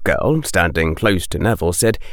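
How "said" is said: ordinary delivery, nothing marked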